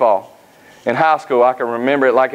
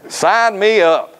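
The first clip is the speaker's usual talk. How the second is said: laughing eagerness; 6 semitones higher, much slower than usual. Retold or imitated. Eagerly accepting the pay offer.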